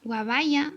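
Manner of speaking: "guabaya" with b and y swapped; childlike "guabaya"; swapped sounds. Shown as a demonstration. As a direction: say "guabaya", child's mix-up of guayaba. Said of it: "intercambio de sonidos en la palabra".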